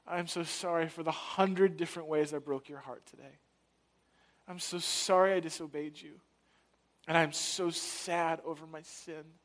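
contrite prayer. Retold or imitated. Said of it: "call out to you".

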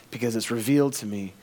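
ordinary talk, nothing marked

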